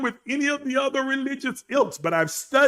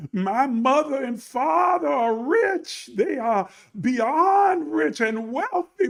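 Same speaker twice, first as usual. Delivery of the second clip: ridiculous self-pity; 5 semitones higher than usual. Acted. Rich parents' child claiming to be miserable, mock self-pity. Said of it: "Do you see how ridiculous that sounds?".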